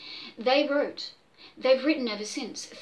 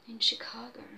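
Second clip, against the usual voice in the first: hushed reveal; 6 dB quieter than usual. Acted.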